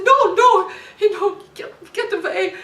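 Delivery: loud, high "no, no, get away"; shouted refusal. Retold or imitated. Wife shouts at drunk husband to get away. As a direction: push him off with a yell.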